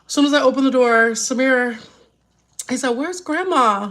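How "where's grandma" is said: slow, higher little boy's attempt at "Where's Grandma?"; imitating little grandson. Grandmother telling viewers how her grandson asked for Grandma. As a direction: drag out "Where's Grandma?" like a small child would. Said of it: "He tried to say".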